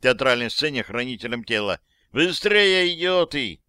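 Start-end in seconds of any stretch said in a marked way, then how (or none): 2.1-3.6 yelling. Acted. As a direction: shout at the bodyguards. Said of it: "заорал я".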